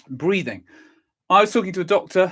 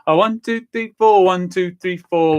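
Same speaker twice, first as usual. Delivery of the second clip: louder count; 3 semitones higher, 4 dB louder than usual. Shown as a demonstration. Leader counts shakes, louder count. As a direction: drive the count up. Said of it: "then ones, then hey".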